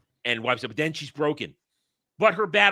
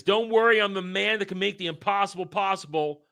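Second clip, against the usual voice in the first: heroic Mu quote; 6 semitones higher than usual. Retold or imitated. Mu's heroic last words.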